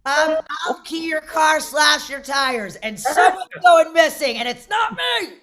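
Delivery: high, mock-tough warning; hammed-up threat building to a punchline; comic threat. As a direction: warn them off with comic bravado. Comic threat to would-be attackers.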